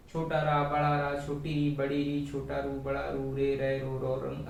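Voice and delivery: chanted barakhadi of रा, short and long pairs; reciting the syllable chart. Shown as a demonstration. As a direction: recite छोटी री, बड़ी री like a drill. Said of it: "ऐसे पढ़ते हैं".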